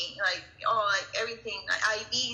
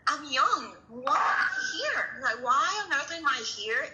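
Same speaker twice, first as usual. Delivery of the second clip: higher, slow, a cracked half-laugh on here; young mother asking why she is at the cardiologist, distraught; distressed plea; 4 semitones higher, slower than usual. Retold or imitated. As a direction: let the disbelief break through. Panicked thoughts at cardiologist.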